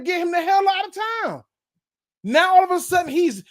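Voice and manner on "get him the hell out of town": high, mocking fan outcry; mock fan yell. Host mimics fans who wanted Stafford gone, high mock yell. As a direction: throw their old shout back at them, higher. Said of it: "half of y'all was screaming".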